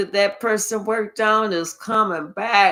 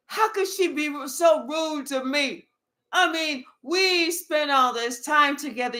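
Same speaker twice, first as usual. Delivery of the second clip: higher, wounded complaining; self-pitying whine; 3 semitones higher than usual. Acted. Ex whining about being disrespected, mock hurt. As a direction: play the wronged ex, aggrieved.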